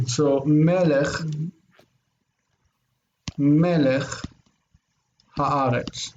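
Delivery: melech said slowly twice, then haaretz, with a pause after each word; slow broken-up model. Shown as a demonstration. Teacher breaking the phrase into words for the student, slow. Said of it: "keep its own secondary accent".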